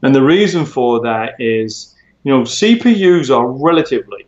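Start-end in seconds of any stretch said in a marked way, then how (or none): 2.4-4.2 "relatively" set apart with deliberate emphasis; stress on relatively. Real, not acted. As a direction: lean on the word "relatively". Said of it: "I emphasize the word relatively".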